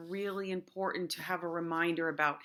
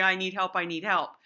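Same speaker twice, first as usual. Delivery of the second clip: a louder, nagging plea for help; mock-whiny kid with a hand raised; mock whining; 4 dB louder than usual. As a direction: whine it like an impatient kid. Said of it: "but not in a whiny voice".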